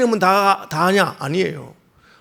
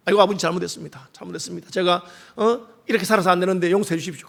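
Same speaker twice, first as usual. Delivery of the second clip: low, softened plea for forgiveness; acted-out contrite prayer, kept small; penitent confession; 3 semitones lower, 6 dB quieter than usual. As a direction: confess humbly in a lowered, quieter voice.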